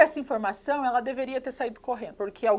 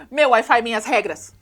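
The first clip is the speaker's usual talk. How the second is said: mock defiant shout; 7 dB louder than usual. Girl retaliates, pulls the Wi-Fi.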